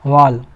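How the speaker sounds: वॉल as "wawl", vowel toward "o"; rounded, falling वॉल. Shown as a demonstration. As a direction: model वॉल with a heavy "aw". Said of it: "ओ वाला sound लेना है।".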